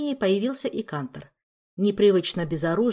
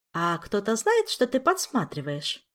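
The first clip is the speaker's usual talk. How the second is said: insinuating; 2 semitones higher than usual. Acted. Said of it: "вкрадчиво поинтересовалась Ольга".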